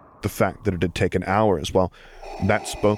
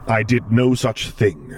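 slow, louder offended denial; affronted denial; 4 semitones higher, 4 dB louder, slower than usual. Acted. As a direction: deny it with wounded pride. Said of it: "he denied".

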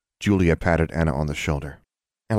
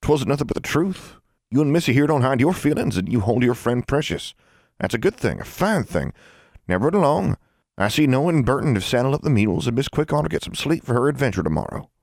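put-on higher-pitched old country woman; approving old granny; 8 semitones higher than usual. Granny approving of children then sending them off, plain-spoken.

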